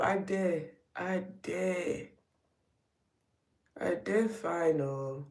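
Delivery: easygoing reply in Nigerian Pidgin accent. Shown as a demonstration. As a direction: answer casually with a light Nigerian lilt. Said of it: "in a Nigerian accent right now".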